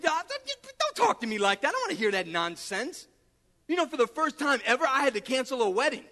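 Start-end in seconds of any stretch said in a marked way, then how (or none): 0.0-3.1 mock quarrel, cutting the other off; retold argument. Preacher replaying his argument, indignant. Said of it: "I got into an argument".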